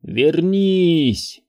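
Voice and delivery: high, mechanical call; eerie mechanical voice; strange mechanical voice. A narrator's reading. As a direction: call out like a machine in the dark. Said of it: "странным, механическим голосом".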